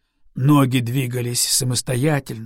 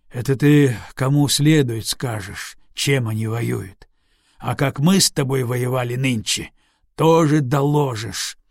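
bitter. Acted. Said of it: "озлобленно проговорил Алексей".

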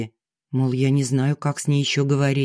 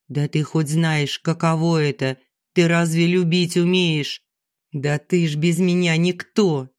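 scornful. Acted. Wife scornful at husband's confession.

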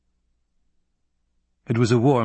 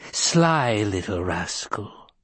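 put-on chuckling old crone; slower than usual. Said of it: "she chuckled".

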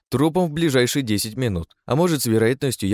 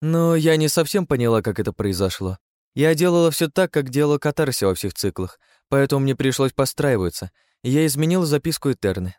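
higher, playful woman's voice; sly female keeper; 5 semitones higher than usual. Acted. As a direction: tease the council. Third keeper voice.

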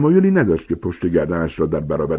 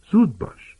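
hurried whisper; coaxing whisper; whispered urging; 11 semitones higher than usual. Acted. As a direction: whisper so the beast isn't startled. Hagrid urges Harry quietly.

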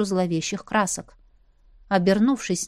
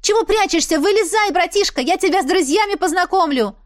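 calling out; 9 semitones higher, 4 dB louder than usual. A narrator's reading. Sister calling brother out.

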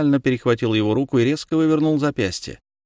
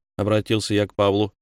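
ordinary delivery, nothing marked

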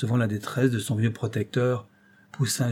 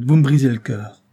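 put-on heartbroken old man; 3 semitones higher, 9 dB louder than usual.

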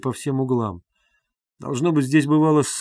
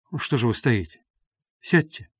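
quiet and tender. A narrator's reading. Raskolnikov gently invites Sonya to sit, tender and quiet. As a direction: gently ask her to sit down. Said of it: "проговорил он вдруг переменившимся, тихим и ласковым голосом".

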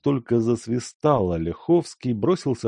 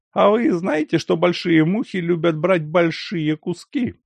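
sardonic question; 10 semitones higher, 4 dB louder than usual. A narrator's reading. Lyakhovsky sardonic.

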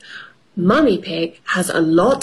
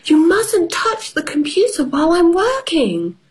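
higher, firm mummy voice; mother voice; 9 semitones higher than usual. Acted. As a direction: tell the child off gently.

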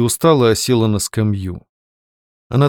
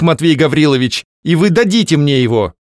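firm, raised demand; 4 semitones higher, 3 dB louder than usual. A narrator's reading. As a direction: spell out each word firmly. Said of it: "повысив голос".

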